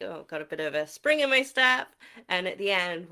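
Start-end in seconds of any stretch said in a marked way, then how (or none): 0.0-1.9 perky. Shown as a demonstration. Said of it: "you're like".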